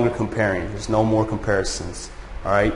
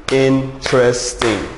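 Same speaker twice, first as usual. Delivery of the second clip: "interesting" drawn out slowly, syllable by syllable; slow down and lay out each syllable of "interesting"; slow syllable demo; slower than usual. Shown as a demonstration. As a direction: spell out "interesting" slowly for the class. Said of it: "Three syllable adjectives".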